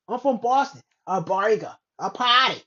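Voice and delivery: mock Boston accent. Imitating someone who's from Boston, Boston accent. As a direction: put on a Boston accent, punchy. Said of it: "you're from Boston".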